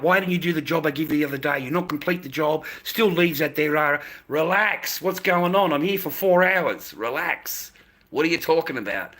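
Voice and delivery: a hammed-up bossy woman demanding answers; scolding woman. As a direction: jab the finger and tell him off. Woman scolding him over the leaves.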